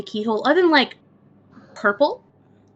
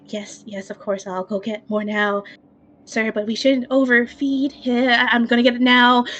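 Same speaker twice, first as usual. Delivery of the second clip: meek servant voice. Acted. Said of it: "You just hear just like".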